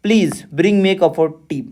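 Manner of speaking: "Please bring me a cup of tea" read slowly, tone falling to the end; falling intonation. Shown as a demonstration. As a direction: let the pitch drop across "Please bring me a cup of tea". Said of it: "ये falling intonation यानी tone गिरने का". ("Please bring me a cup of tea" गिरते हुए tone में)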